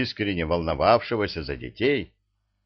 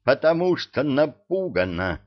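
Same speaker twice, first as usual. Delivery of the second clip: raised, angry retort; seething bark; 6 semitones higher, 4 dB louder than usual. A narrator's reading. Man explaining the girl is scared, barking. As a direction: push it out crossly, higher-pitched. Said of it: "рявкнул он, закипая".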